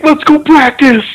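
high, fired-up mock cheer; imitated turned-up player. Players hyped in the auditorium after the speech, mock cheer. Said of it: "turned up".

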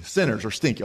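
pinched-nose nasal voice; holding nose. Shown as a demonstration. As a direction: say it with your nose held. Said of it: "hold your nose and go like this".

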